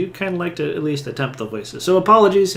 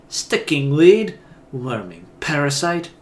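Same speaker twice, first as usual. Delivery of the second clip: loud, slow opening insult, then easing; fury; 5 dB louder, slower than usual. Acted. Aloth's face twists in fury, acted angry outburst. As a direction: spit out the first insult with mock fury. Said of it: "Aloth's face twists in fury".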